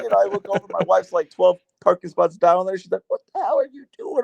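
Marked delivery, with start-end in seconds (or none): 3.1-4.2 high, quick take on a baffled wife; imitated exasperated wife. Husband imitates his wife across the parking lot, exasperated. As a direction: lightly mimic a wife demanding an explanation. Acts out wife's baffled question.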